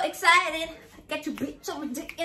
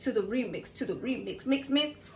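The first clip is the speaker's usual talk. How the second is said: "to the remix" fading like an echo, softer and lower each time; mock radio echo, fading out; fake echo; 3 semitones lower, 5 dB quieter than usual.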